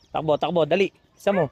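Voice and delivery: shouted, high and urgent; excited calling out. Real, not acted. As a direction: yell after the fleeing chick. Chasing a chick, calling out.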